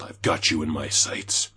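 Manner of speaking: lightly voiced gruff soldier callout; Soldier ult line. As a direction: quote the ult like the game hero. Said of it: "uses his ult".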